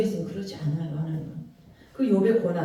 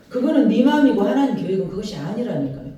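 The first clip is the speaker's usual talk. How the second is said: the second time, louder and firmer; emphatic retort; 3 dB louder, faster than usual. Acted. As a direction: snap back, louder. Repeats line, louder retort.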